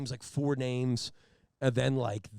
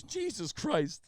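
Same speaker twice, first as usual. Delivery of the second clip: disgusted drawn-out curse; 9 semitones higher, much slower than usual. Retold or imitated. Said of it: "He goes".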